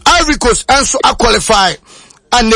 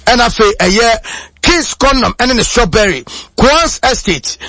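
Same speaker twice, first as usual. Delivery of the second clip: sponsor read. Acted. Reads the sponsor list on air.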